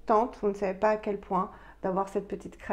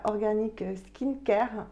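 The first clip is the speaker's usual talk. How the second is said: English accent; slower than usual. Real, not acted. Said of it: "j'ai horreur de prendre un accent anglais".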